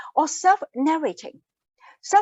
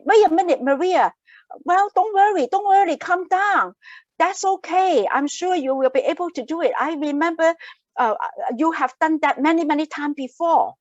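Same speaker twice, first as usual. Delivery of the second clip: reassuring self-talk. Retold or imitated. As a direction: talk yourself down from panic, firmly and kindly. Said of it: "I'm self-talking".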